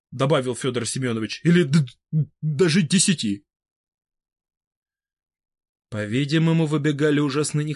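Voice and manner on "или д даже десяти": halting, stuttering on first sounds; stammering old man. A narrator's reading. Fedor Semenovich nervously objecting to Vybegallo, stuttering. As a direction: trip over every opening syllable, nervous.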